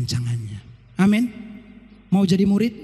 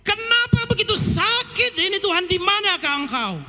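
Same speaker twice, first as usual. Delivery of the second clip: higher, pleading lament; anguished cry to God; 6 semitones higher than usual. Retold or imitated. Believer crying out to God in pain, higher pleading. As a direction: cry out to the Father in hurt. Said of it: "Seringkali kita menjerit".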